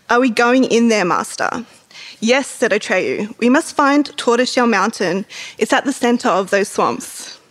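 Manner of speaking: measured read-aloud with mildly acted dialogue; lightly dramatised book reading; story narration. A narrator's reading. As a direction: read the passage aloud, phrase by phrase. Reads the book passage aloud.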